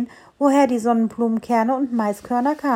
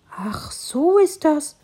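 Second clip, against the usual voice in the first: amused; 6 semitones higher, much slower than usual. A narrator's reading. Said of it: "das Bäumchen schmunzelte".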